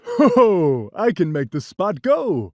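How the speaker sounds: hearty cat brag; laughing cat. Acted. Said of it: "But the cat laughed".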